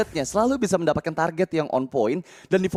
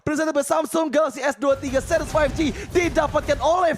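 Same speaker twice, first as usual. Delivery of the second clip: high, slow, shouted hype call; fighting game announcer; 12 semitones higher, slower than usual. Real, not acted. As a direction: roar the triple kill to the crowd. Hyped esports play-by-play call.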